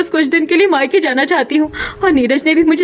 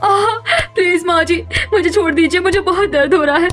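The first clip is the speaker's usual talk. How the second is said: pleading in pain; 3 semitones higher than usual. Acted. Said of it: "पीठ पर झाड़ू से मारने लगती है".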